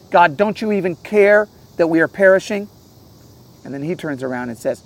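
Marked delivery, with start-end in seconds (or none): 0.1-2.7 higher-pitched, pointed plea; harsh accusing question. Acted. Disciples crying out to God as they perish, mildly harsh. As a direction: accuse with a raised, pained question. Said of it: "their harsh question".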